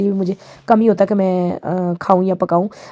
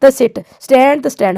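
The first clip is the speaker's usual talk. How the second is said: higher-pitched, drawn-out mock motherly command; strict mother imitation; 5 semitones higher, 4 dB louder, much slower than usual. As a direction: lightly act out a mother ordering her children. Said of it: "हमारी mummy कह रही थी". (माँ के हुक्म की हल्की नकल)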